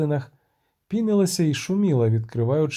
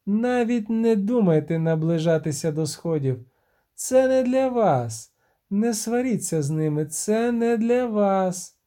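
stern siren warning; 5 semitones higher than usual. Acted.

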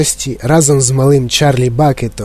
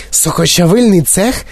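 higher, rising startled question; shocked echo; 5 semitones higher than usual. A narrator's reading. Mother recoils at the juicing room, shocked echo. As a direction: echo “Сокочавильний цех” in alarm, tune rising. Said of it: "сахнулася пані Борегерд".

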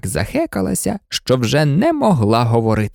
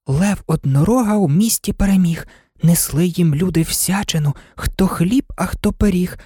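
higher-pitched verse recitation; rhyme recited while running; 5 semitones higher than usual. A narrator's reading. Alice repeats an old song to herself, lightly recited. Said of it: "повторювала про себе слова старої пісні".

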